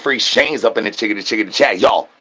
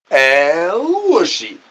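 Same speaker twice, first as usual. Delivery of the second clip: slow, stretched El Whooshy call; drawn-out catchphrase; slower than usual. Pretend. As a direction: stretch it out like a showman. Repeated catchphrase bit.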